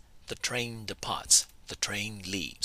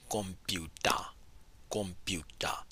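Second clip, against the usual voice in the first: whispered demo; 9 dB quieter, slower than usual. Shown as a demonstration. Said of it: "Burmese word for computer is".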